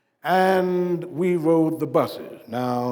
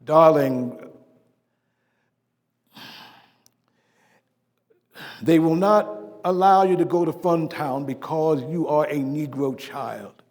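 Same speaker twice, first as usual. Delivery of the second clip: tender explanation. Retold or imitated. Father explaining segregation to daughter.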